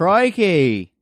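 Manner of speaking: a playful bad stab at a Scottish accent. Host answers the Scotland listener with a bad mock Scottish accent. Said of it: "Our, our Scottish accents need work".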